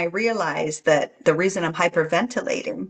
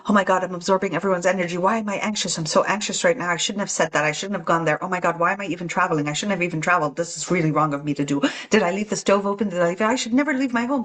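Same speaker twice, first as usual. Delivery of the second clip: fast, panicky inner chatter; anxious inner voice; faster than usual. Pretend. Anxious traveler rambling to herself, fast and panicky. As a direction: rattle it off like a worried mind. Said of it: "the internal dialogue, which could be".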